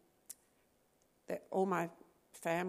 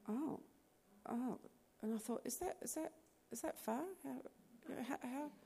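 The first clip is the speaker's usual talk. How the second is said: stunned disbelief; 6 semitones higher, 7 dB quieter than usual. Retold or imitated. It was just so bizarre.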